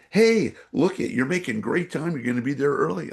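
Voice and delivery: a cheerful voice in his head cheering him along; upbeat inner voice. Retold or imitated.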